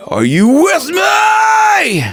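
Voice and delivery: high, drawn-out metal scream; angry distorted scream. Shown as a demonstration. Coach imitating a singer calling to the crowd, angry distorted scream. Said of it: "that anger".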